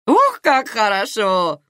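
slow, high burst of relief; aunt hears Karina isn't dying, relieved exclamation; relieved exclaim. Acted. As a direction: throw up your hands in relief. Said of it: "всплеснула руками Наира".

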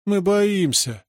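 put-on slow, high whiny little girl; испуганное детское хныканье; whimpering child. A narrator's reading. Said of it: "Верочка захныкала".

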